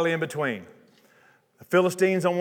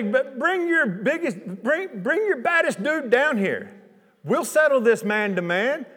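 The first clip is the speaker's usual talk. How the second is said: taunting giant; 7 semitones higher than usual. Retold or imitated. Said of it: "he would shout insults to the Israelites".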